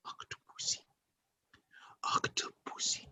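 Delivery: put-on breathy whispered Octopussy with a French accent; Louis Jordan impression. Imitating Louis Jordan's sultry French accent for viewers. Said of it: "The way Louis Jordan says Octopussy".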